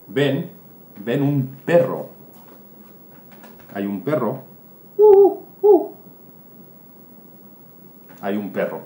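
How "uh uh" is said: high yelping dog noise; imitated bark. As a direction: squeal out a little dog's yelp. Perro ladrando o sonido. (ladrido imitado agudo)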